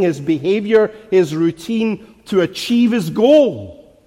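firm, driving pulpit cadence; insistent preaching. Real, not acted. Preacher urging minds set on things above, insistent preaching. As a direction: pile up each point with mounting conviction.

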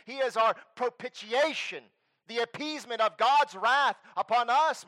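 loud, high, fervent sermon delivery; full-force preaching. Acted. Pastor thundering to his congregation about atonement, full-force preaching. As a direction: preach it with everything you have.

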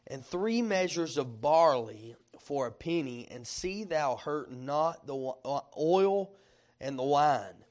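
slow, deliberate scripture reading. Shown as a demonstration. Preacher reading the verse to the congregation, slowly. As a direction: draw the verse out phrase by phrase. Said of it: "you gotta read this slowly".

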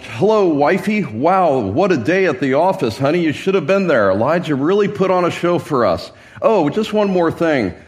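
lightly mocking, breezy homecoming chat; hammed-up husband home. King chats to wifey after a day at the office, hammed-up breezy. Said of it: "you can picture him coming in as, uh, one embellished".

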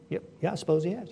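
soft, hurried concession; acted meek reply; reluctant agreement. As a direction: give way quietly and quickly. Cowed Naboth answering Jezebel, acted.

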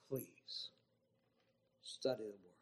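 soft whisper; whispered plea. Acted. Preacher quietly begging listeners to study. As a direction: plead in a hush.

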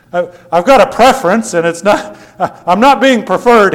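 high, loud, indignant protest; mock whining complaint. Preacher imitating himself complaining to the Lord, petulant protest.

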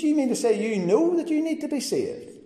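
put-on the young coworker shouting after him as he walks away; shouted back. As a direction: call after him in exasperation. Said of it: "he shouted back at me".

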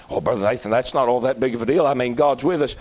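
low, dismissive mock churchgoer; mock doubter. Preacher mocking a doubter in the pews, low and dismissive. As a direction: shrug it off like a bored skeptic.

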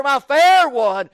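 slow, lingering my fair one; sweet emphasis. Acted. Preacher savouring the shepherd's sweet name. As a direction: savour each word. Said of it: "He calls her".

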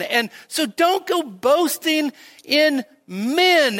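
rising to full preaching force. Acted. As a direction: drive each short line home slowly. Preaching Paul's text.

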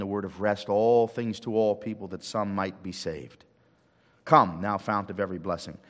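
earnest, unhurried prayer voice; lightly voiced prayer; pastoral prayer. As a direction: pray over the congregation. Leads congregation in prayer.

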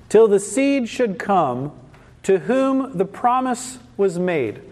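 measured, formal Bible reading with pauses between phrases; Scripture reading. Acted. Preacher reading Galatians to the congregation, measured Scripture reading. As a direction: read it out solemnly, phrase by phrase.

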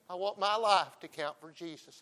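full-voiced preacher vow; loud declaration. Real, not acted. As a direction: proclaim it to the whole room. Loud half of a repeat.

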